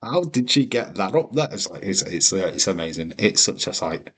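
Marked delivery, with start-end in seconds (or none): 0.0-1.5 high, incredulous what-what-how; mock disbelief. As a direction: act baffled and amazed. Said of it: "you'd be like".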